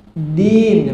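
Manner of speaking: Din with the tongue tip at the upper teeth; front dal. Shown as a demonstration. Teacher modelling Din for the pupil to repeat.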